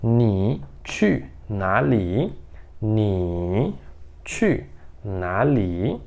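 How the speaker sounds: Ni chu na li said very slowly and clearly; slow model sentence. Shown as a demonstration. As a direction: spell out each syllable slowly. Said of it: "falar ela dessa maneira aí".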